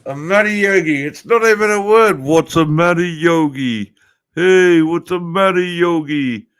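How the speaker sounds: high, bright sing-song call; a hammed-up "matty yogi" call; mock Aussie greeting.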